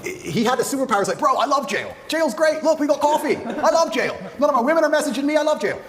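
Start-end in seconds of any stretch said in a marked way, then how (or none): 1.2-5.8 imitating brother. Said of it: "someone like him who's just like".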